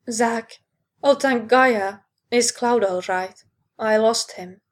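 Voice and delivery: anxious rush of relief; breathless, near-panicked relief; frantic. Acted. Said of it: "She sounded near frantic".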